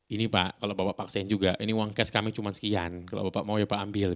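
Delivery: even, composed offer; mildly soothing reasoning; calm, slowed intonation. Shown as a demonstration. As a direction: negotiate calmly with the landlord. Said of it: "dipelanin intonasinya".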